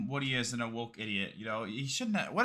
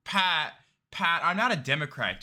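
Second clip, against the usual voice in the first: higher, louder mock of a guest pleading the host's name; mock the guest repeating Pat's name, whining, higher and louder; mocking whiny impression; 4 semitones higher, 3 dB louder, slower than usual. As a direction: whine it out like a defensive guest mocked. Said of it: "And he's just saying".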